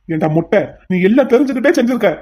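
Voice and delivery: snarls a furious rebuke at the henchman; rising anger, voice climbing; furious accusation; angry rebuke. Acted.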